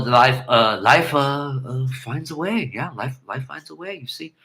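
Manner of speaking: stuttering, fading life finds a way; hesitant Goldblum line, trailing off soft; lightly voiced Goldblum, halting and quiet; Jeff Goldblum impression. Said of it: "I can do a Jeff Goldblum imitation".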